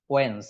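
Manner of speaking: "ওয়েন্স" as one syllable, wenz; correct first syllable. Shown as a demonstration. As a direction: say "ওয়েন্স" with silent d. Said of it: "এটার right উচ্চারণ".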